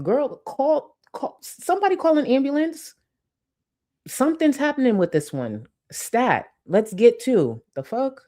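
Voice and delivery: high frantic mock alarm; mock panic. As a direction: shriek for an ambulance in mock panic. Mock emergency call for an ambulance.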